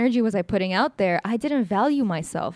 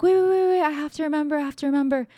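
mock frantic wait-wait, higher pitched; flustered stalling; 7 semitones higher, faster than usual. Date stalling when quizzed on her studies, flustered. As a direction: imitate someone scrambling, voice jumping up high.

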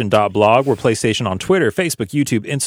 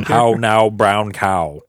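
elocution exercise; much slower than usual. Shown as a demonstration. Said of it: "Vocal exercises, everybody".

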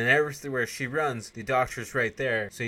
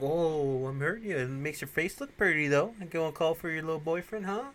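higher sneering taunt; mock menacing villain; 6 semitones higher than usual. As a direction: taunt her like a cartoon bad guy. Louis menacing Alex.

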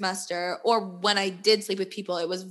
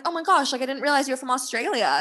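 excited; 5 semitones higher than usual. Retold or imitated. Retold surprised greeting to date.

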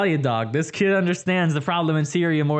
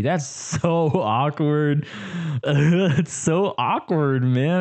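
embarrassed laughing; 3 semitones lower, much slower than usual. Real, not acted. Embarrassed after being caught singing.

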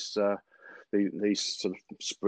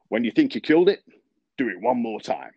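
southern drawl, pitched higher and louder on the punchline; 6 semitones higher, 6 dB louder than usual. Retold or imitated. Old superintendent answering Billy about verticutting, in southern drawl. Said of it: "it has to be said really in a southern drawl".

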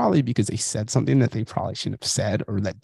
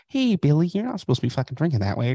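mock scolding parent; 6 semitones higher than usual. Parent scolding child, imagined.

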